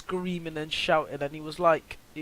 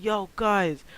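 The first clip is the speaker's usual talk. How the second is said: calling up the street, raised voice; retold screaming; 3 semitones higher, 4 dB louder, much slower than usual. Shouting to friends up the street to run, loud call. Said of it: "I was just screaming".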